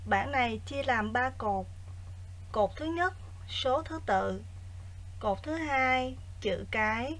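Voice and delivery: quiet, even lesson reading; soft teacher voice. Acted. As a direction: read the exercise softly and evenly. Quiet recorded exercise reading.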